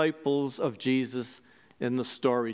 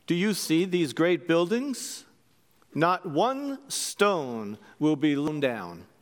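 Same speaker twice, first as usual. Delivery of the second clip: measured, solemn gospel read, slower at the close; scripture reading. Acted. Priest reading Jesus' warning to the disciples, solemn. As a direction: read the words of Jesus with weight.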